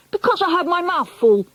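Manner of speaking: put-on high boy's voice, answering back; petulant little boy. A narrator's reading. Boy answers the grandmother back, petulant. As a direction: pitch it up like a cross child.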